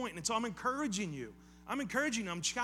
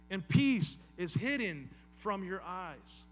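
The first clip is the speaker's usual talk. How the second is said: slow, louder, grieving line; sorrowful lament; 4 dB louder, slower than usual. Acted. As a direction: let "peace" ache, drawn slowly. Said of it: "think of the tone of voice he's using".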